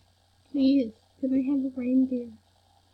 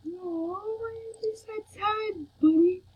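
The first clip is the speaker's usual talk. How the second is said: soft, high-pitched pity; cooing sympathy; 8 semitones higher, 4 dB quieter than usual. Real, not acted. Player pitying a sad game character, cooing sympathy. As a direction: coo gently in a high voice.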